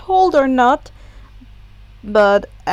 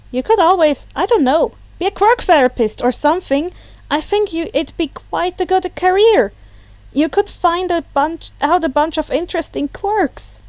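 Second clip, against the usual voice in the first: higher, bright helpful suggestion; cheerful young hero; 4 semitones higher than usual. Acted. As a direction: chirp it out helpfully.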